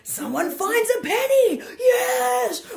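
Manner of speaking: high, loud mock celebration; excited. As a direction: squeal it like a huge win. Mocking family's overreaction.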